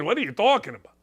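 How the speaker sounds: a hint of a Russian accent; Putin accent. Putin baffled by the swap, light Russian accent. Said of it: "I can do it in a Putin accent if you'd like".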